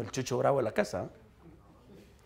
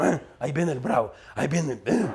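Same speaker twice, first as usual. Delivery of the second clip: low, altered voice of people dreading someone; wary onlookers; 3 semitones lower than usual. Acted. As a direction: mutter a mock warning about the fearsome one. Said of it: "cuando me miran no dice". (aviso temeroso fingido, en voz baja y grave)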